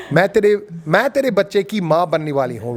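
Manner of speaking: fast, native Hindi with Indian sounds, "मैं तेरे बच्चे की माँ बनने वाली हूँ"; proper Hindi. Shown as a demonstration. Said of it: "went proper Hindi".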